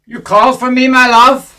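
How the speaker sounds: put-on Russian accent; lightly done Russian accent; fake Russian accent. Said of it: "as Russian as Donald Duck".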